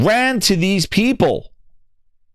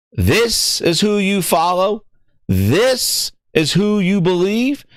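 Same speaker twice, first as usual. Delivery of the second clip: slow sarcastic jab; 3 semitones higher, slower than usual. Acted.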